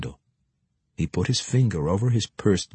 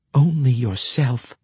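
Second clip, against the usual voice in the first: firm; 4 semitones higher, 3 dB louder, slower than usual. A narrator's reading. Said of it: "Meralda firmly replied".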